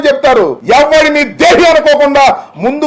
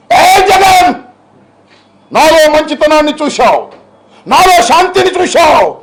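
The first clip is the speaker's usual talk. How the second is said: mocking a film dialogue; 4 semitones higher than usual. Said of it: "ఎన్నిసార్లు చెప్పావు ఈ dialogue?".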